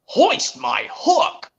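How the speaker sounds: startled crane voice, high and drawn out; startled Cranky. Acted. Acting out the startled crane for a co-host, startled and high. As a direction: cry out slowly in a high, startled voice. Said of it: "Cranky was startled when he says".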